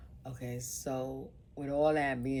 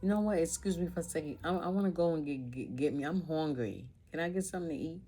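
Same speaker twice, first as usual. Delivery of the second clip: husband excusing himself; 5 semitones higher, faster than usual. Retold or imitated. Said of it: "he would be like".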